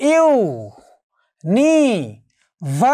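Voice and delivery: ইউনিভার্সিটি very slowly, five syllables with long gaps; ইউনিভার্সিটি stretched, every syllable isolated. Shown as a demonstration. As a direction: count out ইউ-নি-ভার-সি-টি, one sound at a time. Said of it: "syllable কয়টি বা অক্ষর কয়টি".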